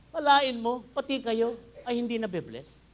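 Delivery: loud preaching. Acted. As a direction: call it out to wake the crowd. Preacher rousing congregation. (malakas na pagsigaw ng akalain mo)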